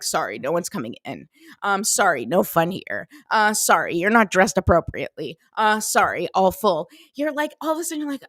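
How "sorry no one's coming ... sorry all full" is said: a hint of a stern bouncer, lower. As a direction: lightly play a bouncer turning people away. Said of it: "if the bouncer's like".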